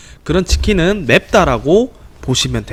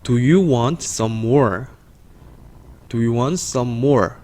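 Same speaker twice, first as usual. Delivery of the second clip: slow, measured sentence for learners; deliberate teacher's modelling; slow model reading; much slower than usual. Shown as a demonstration. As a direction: lead a read-along at an easy, slow pace. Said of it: "같이 한번 다시 읽어볼게요".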